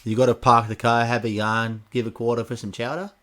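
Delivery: rough attempt at a Boston accent; lightly imitated Boston accent. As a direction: copy Boston speech, dropping the Rs. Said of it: "Something like that".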